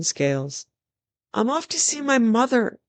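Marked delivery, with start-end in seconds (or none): 1.3-2.8 put-on high boyish call down; screamed. Prince yells down to his stepmother, screaming. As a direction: yell it cheekily at the family. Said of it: "Edward screamed down".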